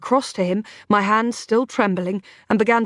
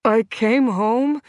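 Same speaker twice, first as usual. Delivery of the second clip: slow, blurred Brooklyn speech, in pain; hurting Brooklyn man, words dragged and blurred; pained Brooklyn accent; slower than usual. A narrator's reading. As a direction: labour it out in a muffled Brooklyn accent. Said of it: "he said painfully, his Brooklyn accent blurred".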